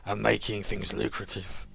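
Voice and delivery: loud, slow, menacing crime boss; smug sewer kingpin with a Dudley accent. Acted. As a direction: lean in like a gangster offering a deal. GM voices the Sewer King.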